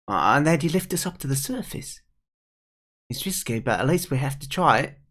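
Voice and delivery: put-on determined young character. Kid proposing a rescue to the pike, determined. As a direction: lay out the plan as the brave youngster.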